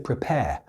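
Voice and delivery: "prepare" ending on an open vowel, no R; silent final R. Shown as a demonstration. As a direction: say "prepare" the British way, dropping the last R. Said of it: "I didn't pronounce the last R".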